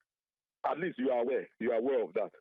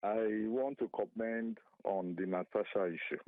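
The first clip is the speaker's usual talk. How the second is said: barely audible. Real, not acted. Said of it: "but your voice is very faint".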